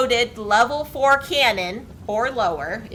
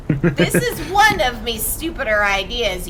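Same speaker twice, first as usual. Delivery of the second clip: laughing; 4 dB louder than usual. Acted. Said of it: "you say out loud".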